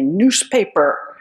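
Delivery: slow, deadpan sarcastic reply; dry sarcasm. Retold or imitated. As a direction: drag it out, dripping with sarcasm. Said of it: "lapsing into sarcasm".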